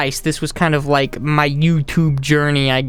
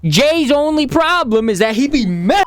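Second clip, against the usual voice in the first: higher-pitched, hammed-up rant; mock outburst; 8 semitones higher than usual. Vlogger ribbing fellow YouTuber Jay, high mock outburst. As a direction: burst out in a high mock tirade.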